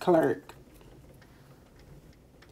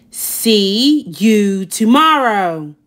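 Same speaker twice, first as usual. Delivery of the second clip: slow, drawn-out taunt; teasing note; 4 dB louder, slower than usual. Acted. Wendell's note to Sophie, slow mild taunt. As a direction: read the note like a slow tease.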